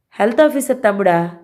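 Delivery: a touch of astonishment in a changed voice; surprised question. A narrator's reading. Kiran asking the DSP, mildly surprised. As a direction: ask it half-startled. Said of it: "Kiran ఆశ్చర్యం వ్యక్తం చేశాడు".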